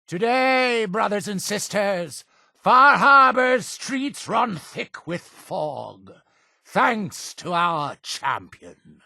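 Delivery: high-pitched address to the flock; exultant sermon announcement, pitched well up; preacher's proclamation. Acted. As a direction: proclaim victory to the brethren, drawing it out. Preacher proclaims news to congregation.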